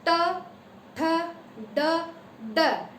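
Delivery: ट, ठ, ड sounded separately with the tongue curled back; sound demo. Shown as a demonstration. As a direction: say ट ठ ड crisply. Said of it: "ट देखो".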